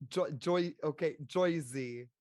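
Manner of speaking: put-on testing out a broad Jersey accent. Player warming up the requested voice, Jersey accent. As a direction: feel for the Jersey vowel in "Joyzy". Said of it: "talk in a Jersey accent".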